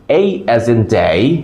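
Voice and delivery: "A as in day" with drawn-out gliding vowels; slow model pronunciation. Shown as a demonstration. Teacher modelling for students to repeat, slow careful diphthongs. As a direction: stretch the glide in "A" and "day". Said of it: "আমার সাথে সাথে বলুন".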